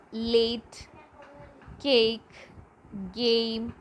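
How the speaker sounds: "late, cake, game" with held ay; each word said singly, long "ay". Shown as a demonstration. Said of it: "A sound".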